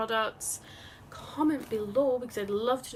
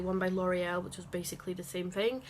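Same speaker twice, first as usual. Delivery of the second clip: normal talking voice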